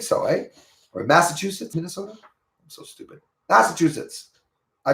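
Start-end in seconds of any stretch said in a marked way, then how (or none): 2.1-3.2 barely audible whisper to yourself; very soft, voiceless aside; whispered self-reproach. Real, not acted. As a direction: whisper it under your breath. Self-reproach under his breath.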